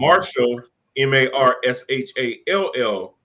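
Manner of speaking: MARSHALL punched, then spelled letter by letter; deliberate letter-by-letter spelling of MARSHALL; mocking spell-out. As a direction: hit Marshall hard and spell out each letter.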